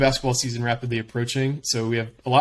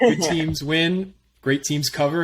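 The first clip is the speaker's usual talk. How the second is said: mock wise quote; 4 semitones higher, slower than usual. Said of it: "as a great man once said".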